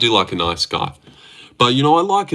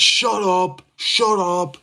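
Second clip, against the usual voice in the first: high mock childish shut up; whiny high put-on tantrum; hammed-up bratty shout; mocking a kid yelling; 9 semitones higher, much slower than usual. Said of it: "yelling like a kid".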